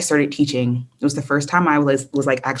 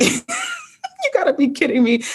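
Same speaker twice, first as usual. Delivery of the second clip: higher, slow, drawn-out mock exasperation; exasperated disbelief; 12 semitones higher, slower than usual. Repeating it to the host, slow and exasperated. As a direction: stretch it out like you can't believe your luck. Retold frustration at no job offers.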